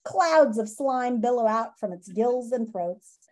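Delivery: lively storybook read-aloud for students; reading aloud to class. Acted. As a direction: read the chapter to the kids with expression. Teacher reads book to class.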